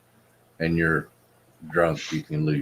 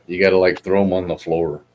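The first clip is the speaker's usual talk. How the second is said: talking with a mouthful of food; mouth full. Real, not acted. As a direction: say it around a bite of food. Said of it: "'cause you have your mouth full".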